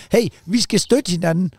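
wife gets cross and insists they back each other up, mock stern; retold annoyed wife. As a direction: play the cross wife, slow and firm. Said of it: "så bliver Jenny sur sådan".

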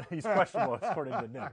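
laughing loudly through words; cracking up mid-sentence. Real, not acted. Laughing at concussion joke.

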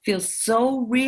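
slow breathy whisper of "feels so real". Real, not acted. Echoing her own words to the host, slow whisper. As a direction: drop to a whisper on the repeat.

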